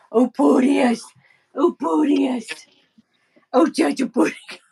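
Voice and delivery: high, loud doting coo; cooing at dog. Real, not acted. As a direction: gush over her sweet dog.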